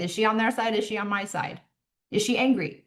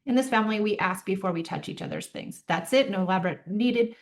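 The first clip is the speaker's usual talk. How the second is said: calm statement. Shown as a demonstration. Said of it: "You just calmly say".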